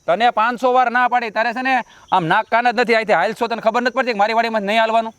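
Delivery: indignant telling-off, not a full shout; quarrelsome yelling. Acted. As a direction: scold a trespasser in an argument. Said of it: "બહુ બૂમ બરાડા ન પાડ".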